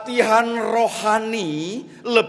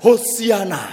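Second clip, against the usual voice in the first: command word; 3 semitones higher, 7 dB louder than usual. Acted. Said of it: "cukup ungkapkan".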